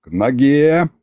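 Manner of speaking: drawn-out order to heel; yelled command. A narrator's reading. Tsar summoning his butler, yelled command. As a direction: call him to heel, stretching the words. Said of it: "заорал я".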